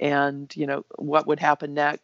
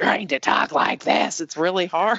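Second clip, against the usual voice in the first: growling wrestling-promo voice; 3 semitones higher, 4 dB louder than usual. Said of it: "develop that growl".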